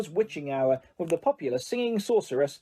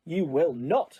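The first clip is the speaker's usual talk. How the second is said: snapped; slower than usual. Acted. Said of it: "snapped Missus Weasley".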